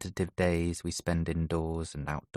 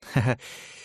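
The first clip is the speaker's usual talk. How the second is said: laugh; 6 semitones higher than usual. Acted. Nick laughs at awkward moment.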